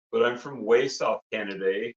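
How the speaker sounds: put-on Canadian hoser accent; lightly hammed-up Canadian accent; funny Canadian accent. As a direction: play a comic Canadian from down south. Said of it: "so he talks a little funny".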